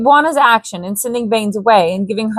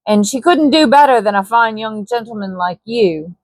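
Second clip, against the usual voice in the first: light Cockney trader voice; Cockney Hanson. Acted. Hanson flatters Baines, light Cockney persuasion. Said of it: "this Scandinavian has suddenly become Cockney".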